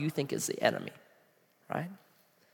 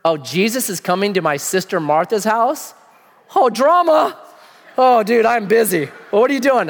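higher, louder, dodging the party; lazy Lazarus; 3 semitones higher, 3 dB louder than usual. Acted. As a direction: brush it off like a busy bro. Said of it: "I think he heard".

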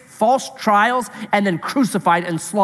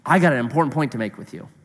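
teacher voice; 6 semitones lower, faster than usual. Retold or imitated. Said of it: "when a teacher does that".

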